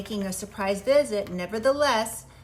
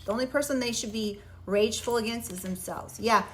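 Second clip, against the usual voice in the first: wearing a retainer. Real, not acted. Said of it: "I have my retainers in today, and I am having a hard time talking".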